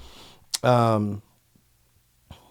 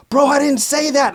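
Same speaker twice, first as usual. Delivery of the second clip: retold raised protest; 13 semitones higher, 5 dB louder than usual. Defending himself in a phone fight.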